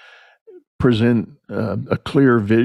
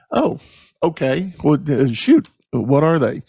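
a high, startled "Oh" that settles into mild surprise; caught off guard; 4 semitones higher than usual. Retold or imitated. Owner hears his team has issues, mildly surprised. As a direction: act taken aback, then gamely ask.

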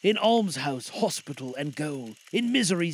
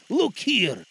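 lightly raised spirit call; ghost voice; 4 semitones higher, 3 dB louder than usual. Acted. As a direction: call his attention gently. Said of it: "exclaimed the ghost".

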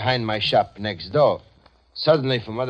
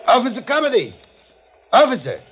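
calling out; 9 semitones higher, 4 dB louder than usual. Acted. Calling the policeman over.

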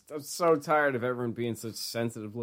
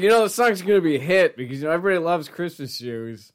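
imitating the DJ; 5 semitones higher, 6 dB louder than usual. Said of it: "He's like".

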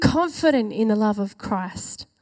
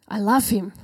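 whisper; 4 semitones lower than usual. Retold or imitated. Imitating a baptised refugee as he whispers his love. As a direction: whisper it as if confiding. Retelling refugee's quiet declaration.

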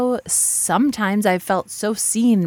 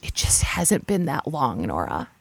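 choked up; 2 semitones lower, 5 dB quieter than usual. Retold or imitated. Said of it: "she was, like, all, like, stopped up".

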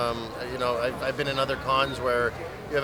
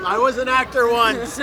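high, loud theatrical lament; hammy stage actor; 7 semitones higher, 6 dB louder than usual. Acted. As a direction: overplay the tragic actor. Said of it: "I played King Richard".

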